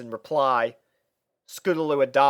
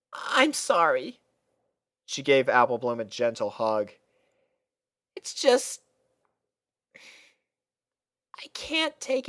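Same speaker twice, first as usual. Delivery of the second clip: weary apology; 10 semitones higher than usual. A narrator's reading. Sweetie Belle hugging Apple Bloom, tired and sad. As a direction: apologize while worn out.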